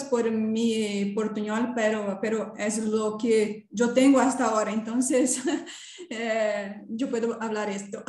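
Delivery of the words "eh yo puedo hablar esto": hablando entre risas; riendo. Real, not acted. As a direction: risa ligera y apenada. Risa al disculparse por portuñol. (riendo con vergüenza)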